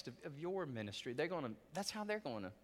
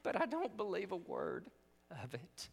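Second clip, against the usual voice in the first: tender; 4 semitones higher than usual. Retold or imitated. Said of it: "she said these words".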